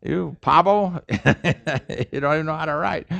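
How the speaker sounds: teasing jeer with a laugh in it; mock ridicule. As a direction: poke fun at the hopeless writer. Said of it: "people are gonna laugh at you".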